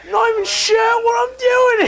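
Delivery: very high voice in a muddled mock-Australian accent. Fumbling the character for co-hosts, muddled Australian accent. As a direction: squeak out a badly faked Australian accent. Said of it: "What accent, ... what accent was that?".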